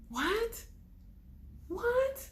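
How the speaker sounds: very high, drawn-up questioning "what?"; hurt, enraged disbelief. Retold or imitated. Reacting to his news, hurt and incredulous. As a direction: squeak it out in sheer disbelief. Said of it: "I was so enraged. I was hurt".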